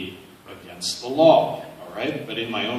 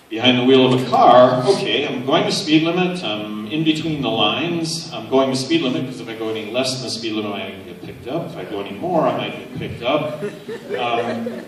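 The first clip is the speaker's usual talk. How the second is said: laughing; 2 semitones higher, 9 dB louder than usual. Retold or imitated. Retells driving high, acting it out.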